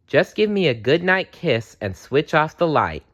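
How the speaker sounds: put-on a small girl's eager request; child voice. A narrator's reading. Sally asking her parents for a kiss, light child voice.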